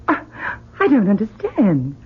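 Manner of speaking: choked up, near tears; words catching in a tearful throat. Acted. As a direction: overcome and teary at his return. Mother overwhelmed by son's arrival.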